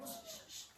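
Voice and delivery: repeated shushing sound shh, shh, shh, hushed and airy; sound demo. Shown as a demonstration. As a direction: hiss shh shh shh softly like hushing a room. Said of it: "What's this one?".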